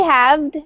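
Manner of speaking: "halved" said as "havd", silent L; pronunciation demo. Shown as a demonstration. Teacher offering student another option, pronunciation demo. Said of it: "just depending on your pronunciation".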